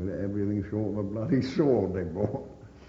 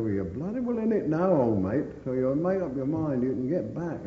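stern order; 5 semitones higher, 5 dB louder than usual. Retold or imitated. Ordering old man to decide.

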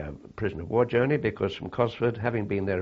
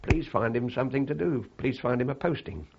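mild, higher-pitched plea; retold pleading; 3 semitones higher than usual. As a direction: lightly imitate a wife pleading for a favour. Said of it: "She pleaded with him".

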